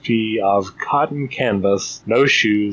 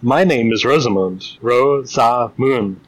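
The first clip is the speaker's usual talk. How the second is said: over enunciating. Acted. Carefully spelling out own name.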